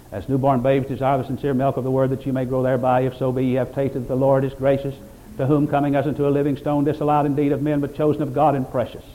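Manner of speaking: even, level-pitched recital of a verse; scripture recitation. Acted. Preacher quoting scripture to the congregation, steady recitation. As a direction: recite scripture in one steady unbroken run.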